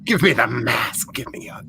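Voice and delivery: slow breathy whisper, creepy; whispered demand. Retold or imitated. Speaker whispering to the tall priest, slow and creepy. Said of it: "I was like".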